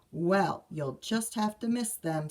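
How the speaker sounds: firm mother, lightly voiced; mild firm mama. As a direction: put your foot down gently. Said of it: "said Mama firmly".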